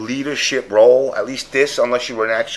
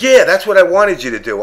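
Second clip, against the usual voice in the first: smug teammate; 7 semitones higher, 6 dB louder than usual. Retold or imitated. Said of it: "And he was like".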